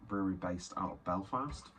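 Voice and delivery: badly faked Irish accent; a faint attempt at an Irish accent; terrible Irish accent. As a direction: slip lightly into a poor Irish accent. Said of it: "That was a terrible Irish accent".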